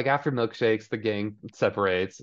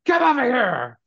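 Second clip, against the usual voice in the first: mother barking orders at her daughter in a high mock voice; shrill mom voice; 7 dB louder than usual. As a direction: play the cruel high-pitched mother commanding her daughter. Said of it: "She's like".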